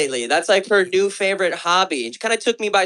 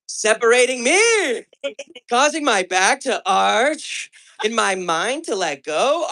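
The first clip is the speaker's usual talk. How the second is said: sultry reading; slower than usual. Retold or imitated. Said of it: "this is what the fuck she said".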